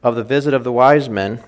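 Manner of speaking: even, unhurried storytelling read aloud; story reading. A narrator's reading. Preacher reading a Christmas story aloud to the congregation.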